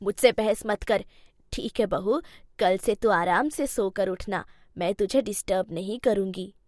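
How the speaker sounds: a lightly voiced elderly mother-in-law, patient; old mother-in-law.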